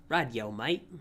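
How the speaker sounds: casual Australian "Rightio, mate"; easygoing Australian reply; Australian accent. Acted. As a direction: toss it off in a light Australian accent. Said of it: "I'll try to do an Australian accent".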